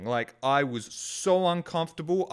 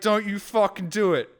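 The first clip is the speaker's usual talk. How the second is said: angry warning; 6 semitones higher, 4 dB louder than usual. Retold or imitated. Warning the seagull.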